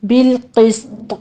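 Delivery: بالقسط slow, heavy qaf, whistled sin, bounced ta; بالقسط drawn out, qaf full and the ending jolted; slow tajweed recitation. Shown as a demonstration. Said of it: "سین پر سیٹی کی آواز کے ساتھ ہمس کریں گے".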